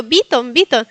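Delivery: Bytom repeated as BEE-tom; insisted mispronunciation. Retold or imitated. Learner answering a puzzled friend, wrong i. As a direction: say Bytom twice with a Spanish i. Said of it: "con la I latina".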